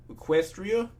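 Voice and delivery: verbaasd; puzzled. Acted. Puzzled question about strange word.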